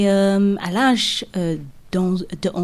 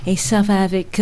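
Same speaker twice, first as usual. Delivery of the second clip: ordinary talk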